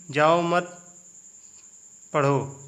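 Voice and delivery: जाओ मत said slowly, a long pause, then पढ़ो; pause after मत. Shown as a demonstration. Teacher showing how a comma changes meaning, pause after मत. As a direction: break after मत, before पढ़ो. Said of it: "वाक्य का अर्थ ही बदल जाता".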